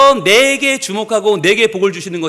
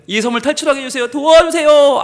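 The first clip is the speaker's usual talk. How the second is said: mock-urgent prayer, climbing at the end; acted prayer. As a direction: build to a begging shout for help. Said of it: "기도를 바꿨습니다".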